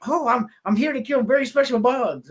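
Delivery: fake accent. Fletch bluffing the cop, lightly faked accent. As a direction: play dumb with a hint of put-on accent. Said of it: "fake mustache and fake accent".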